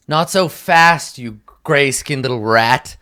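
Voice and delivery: slow, drawn-out threat to a cornered thief; a hint of a sneering captor, slow; menacing guard.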